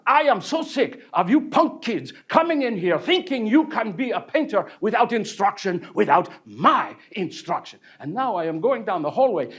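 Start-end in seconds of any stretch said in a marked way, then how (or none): 0.1-7.8 higher, louder ranting scold; angry painter ranting at the departing student; continued yelling. Retold or imitated. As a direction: keep scolding the punk kid. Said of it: "he continues to yell".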